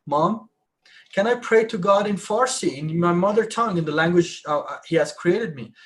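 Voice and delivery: ordinary delivery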